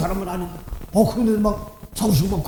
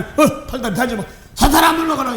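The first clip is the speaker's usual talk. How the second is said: mock exorcism; 3 semitones higher than usual. Mock exorcism command retold.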